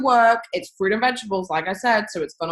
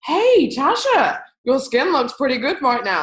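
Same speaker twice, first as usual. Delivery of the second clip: friend's compliment; 4 semitones higher than usual. Retold or imitated. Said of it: "My friend says".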